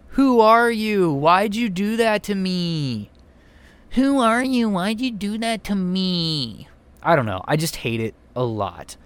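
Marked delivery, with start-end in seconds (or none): 0.1-3.1 high, slow, limp mock delivery; bad acting. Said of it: "if she delivers it like this". 3.9-6.7 bad acting. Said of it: "if she delivers it like this".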